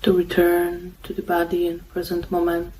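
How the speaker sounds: calm, unhurried meditation guidance with long pauses; guided meditation. Real, not acted. Meditation host guiding listeners to follow the breath, calm and unhurried. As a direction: guide them gently, leaving long silences between phrases.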